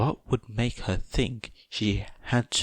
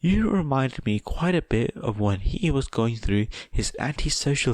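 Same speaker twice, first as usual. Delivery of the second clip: higher sweet voice, lightly veiled threat; mild menacing sweetness; 4 semitones higher than usual. Acted. Mother sweetly threatening Tomura's secret. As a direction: smile while hinting danger. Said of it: "hard as diamonds and as poisonous as cyanide".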